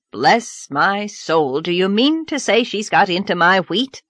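a flustered farmer exclaims; lightly voiced nervous farmer. Mr. Harrison again.

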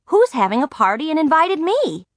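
high, eager wondering thought; rising curiosity, pitched well up. A narrator's reading. Margaret wonders who invited her, eager wondering. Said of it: "I thought".

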